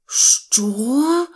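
high, loud cry of disbelief; outraged shout. Acted. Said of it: "закричав Пончик". (обурений крик)

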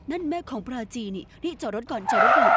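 a sudden loud order to stop the car; urgent call. Acted. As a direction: call out to the driver to pull over now. Urgently telling driver to stop.

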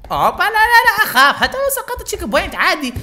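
laughing high through the words; nervous laugh. Real, not acted. Gamer laughing nervously as he nearly slips, high. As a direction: giggle it out, half scared.

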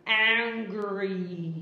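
low, drawn-out mock anger; acted anger. Shown as a demonstration. Teacher showing mood words to pupils, acted anger.

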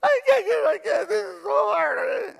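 high, wailing sob through the words; crying. Retold or imitated. Daughter cries to her dad over the clarinet, high-pitched sobbing. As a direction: sob it out, frustrated and overwhelmed. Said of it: "and she's crying".

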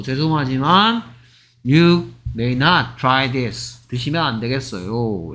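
slow, restrained apologetic refusal; polite refusal. Shown as a demonstration. Teacher models politely refusing a taste, apologetic refusal. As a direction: turn them down gently and unhurriedly. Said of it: "이렇게 하겠죠".

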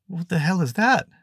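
high, loud startled cry; shocked. Acted. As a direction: blurt it out in shock. Shocked at creature.

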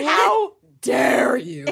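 slow, playful indignation; mock outrage. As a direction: act offended, drawn out.

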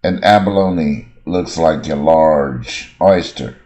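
slow, careful reading of the example; slow model sentence. Shown as a demonstration. Teacher reads the example sentence to students, slow and clear. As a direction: read it slowly and clearly for the class. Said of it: "example sentence read".

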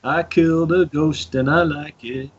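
mock film-giant character voice; Hagrid. Player owning up to killing a ghost, Hagrid-like. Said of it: "Sorry, what was that, Hagrid?".

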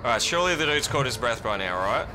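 hushed. Real, not acted. Hiding, hoping monster gone.

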